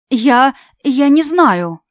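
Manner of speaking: slow, shaky stammer; trembling voice. Acted. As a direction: stammer out in fear. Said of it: "дрожащий голос Наили".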